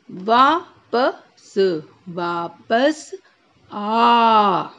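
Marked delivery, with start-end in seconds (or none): 0.1-3.1 वापस with the आ held long; slow वापस; stretched aa. Shown as a demonstration. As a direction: drag out वा in वापस. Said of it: "खींच के बोलना है".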